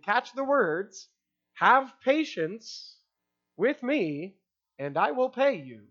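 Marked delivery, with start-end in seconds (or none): 1.5-5.9 slow, drawn-out pleading plea. A narrator's reading. Servant begging fellow servant for patience, slow pleading. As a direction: beg for time, very slowly. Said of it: "pleaded with him".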